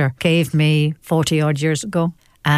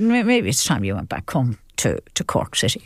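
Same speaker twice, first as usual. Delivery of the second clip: very politely; 5 semitones lower than usual. Retold or imitated. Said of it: "I said very politely".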